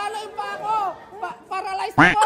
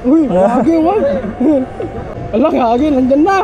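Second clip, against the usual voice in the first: shouting; 3 semitones lower, 5 dB louder than usual. Real, not acted. Yelling on ride.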